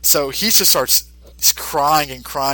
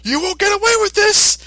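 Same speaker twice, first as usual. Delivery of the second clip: much higher, louder battle cry; heroic shout; 13 semitones higher, 4 dB louder than usual. Retold or imitated. Mister Satan confronting the sniper, in a much higher heroic shout. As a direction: declare it like a champion. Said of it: "Mister Satan's like".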